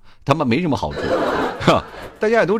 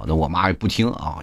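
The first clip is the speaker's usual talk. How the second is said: ordinary delivery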